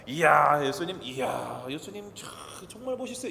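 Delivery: butter him up before the fight; fawning flattery. Acted. Pastor voicing Nicodemus flattering Jesus, fawning.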